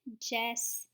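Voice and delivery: majestic with long open first syllable; open syllable try. Shown as a demonstration. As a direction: say majestic as may-jestic, long A. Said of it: "if I read this with an open syllable".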